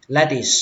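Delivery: lettuce ending on a clear s sound; clear final S. Shown as a demonstration. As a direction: finish "Lettuce" on an audible hissed s. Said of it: "Kết thúc bằng âm sờ".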